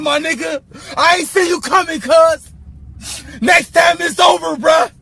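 tearful mad threat; angry crying. Acted. Man crying mad at rival, tearful threat. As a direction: choke up while threatening. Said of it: "why the fuck you crying?".

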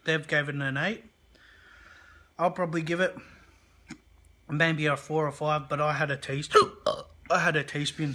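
talking through hiccups; hiccuping between words. Real, not acted.

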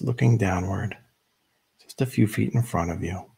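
measured meditation guide with long pauses; unhurried instructions, leaving room to breathe between phrases; guided meditation. Real, not acted. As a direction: lead them gently into stillness, phrase by phrase.

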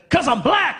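high, loud laughing comeback; mock retort. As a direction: fire back with a grin. Punchline retort to cop.

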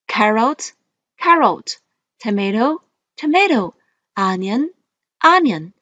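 each word twice, rising then falling; list reading tune. Shown as a demonstration. Teacher modelling vocabulary for students, rise then fall. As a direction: model words for the class to repeat. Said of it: "let's read the words".

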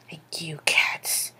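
barely voiced, under the breath; very soft sarcastic aside; hushed aside. Real, not acted. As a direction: drop to a near-whisper. Sarcastic aside about cat allergy.

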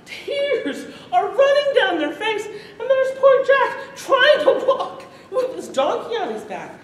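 can barely get the words out for laughing; laughing while telling. Real, not acted. Teller laughing again describing crowd.

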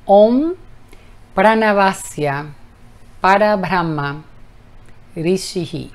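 Om loud, then Pranavasya Parabrahma Rishihi slow and syllable by syllable; careful slow Sanskrit recitation of Om Pranavasya; Sanskrit mantra. Shown as a demonstration. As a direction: enunciate Parabrahma Rishihi slowly. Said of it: "El mantra dice".

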